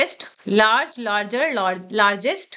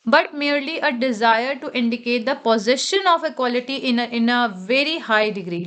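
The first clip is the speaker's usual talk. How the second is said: slow, careful reading of the rule; teacher reading out a grammar rule; rule read aloud; much slower than usual. Acted. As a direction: read the textbook line slowly. Reads rule text slowly.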